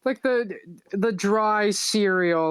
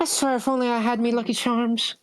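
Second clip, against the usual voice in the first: put-on Irish accent; faster than usual. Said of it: "give Mariella an Irish accent".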